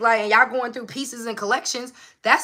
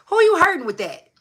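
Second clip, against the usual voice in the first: louder, higher repeat of the question; emphatic question; 8 semitones higher, 6 dB louder than usual. Real, not acted. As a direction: push it harder the second time.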